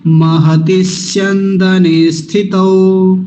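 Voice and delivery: महति स्यंदने स्थितौ chanted slowly; slow recitation. Shown as a demonstration. Teacher reciting the second line. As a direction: draw out स्थितौ at the end. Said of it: "फिर क्या किया था?".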